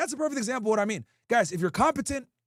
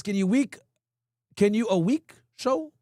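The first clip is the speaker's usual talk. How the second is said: slow, halting read of the garbled question; reading garbled chat. Shown as a demonstration. Streamer reading a viewer's garbled message, slow and halting. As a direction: stumble through the typo as written. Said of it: "Oh, I think you mean".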